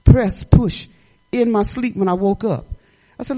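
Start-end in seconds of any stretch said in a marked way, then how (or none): 0.1-0.9 louder repeated push; the Lord telling her to push; urging command. Retold or imitated. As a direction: press her onward, loud.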